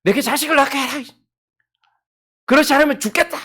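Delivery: high, loud, desperate cry; wife loudly demanding a child of her husband. Acted. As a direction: shout it like a wife at the end of her rope. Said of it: "그의 언니를 시기하여".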